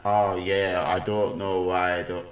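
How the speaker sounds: badly faked Scottish accent; clumsy mock-Scottish voice; Graham Souness. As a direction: attempt a Scottish accent and miss it slightly. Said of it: "that's a really bad Scottish accent".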